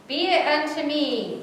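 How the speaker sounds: high, slow, strained declaration; drawn out, slightly cracking with effort. A narrator's reading. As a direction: attempt conviction and let the voice crack. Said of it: "my voice cracked".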